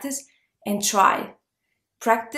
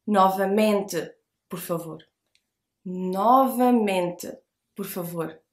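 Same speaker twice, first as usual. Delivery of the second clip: Novamente por favor said slowly; slow model phrase; 3 semitones lower than usual. Shown as a demonstration. Teacher models Novamente por favor slowly. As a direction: Novamente stretched out calmly. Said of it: "Again, please".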